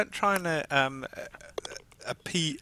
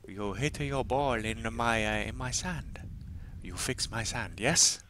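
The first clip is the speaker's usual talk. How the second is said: put-on Japanese accent; 5 dB quieter than usual. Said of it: "That was my best Japanese accent".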